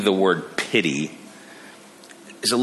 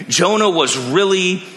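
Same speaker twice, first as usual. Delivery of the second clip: gushing really happy; 6 semitones higher than usual. Retold or imitated. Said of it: "somebody saying".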